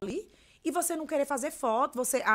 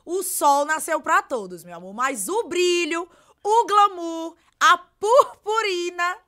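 loud, slow, drawn-out proclamation; signature catchphrase; 4 semitones higher, 9 dB louder, slower than usual. Shown as a demonstration. Creator of the catchphrase demonstrating it for her imitators, loud and stretched. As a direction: ring out each phrase high and loud. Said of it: "vai escutar a dona do bordão falando".

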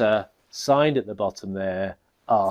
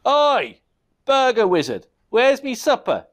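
much higher, louder goblin bellow; demanding yell; 11 semitones higher, 5 dB louder than usual. Acted. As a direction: bark for supper. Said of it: "he demanded".

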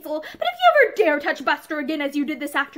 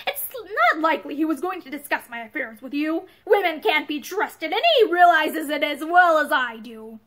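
savage; 4 dB louder than usual. Acted. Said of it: "Matherson answered savagely".

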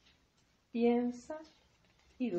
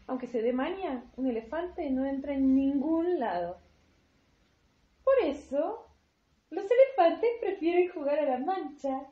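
emphatic ending; 5 dB louder than usual. Acted. Punchline of the story.

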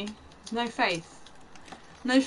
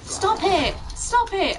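frantic shout; 8 semitones higher, 4 dB louder, slower than usual. Real, not acted. Gamer yelling at attacking enemy.

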